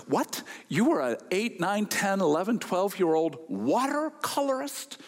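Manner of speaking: rising, amazed question; astonished retelling; shocked disbelief. Retold or imitated. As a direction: sound floored by the answer. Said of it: "a look of absolute shock".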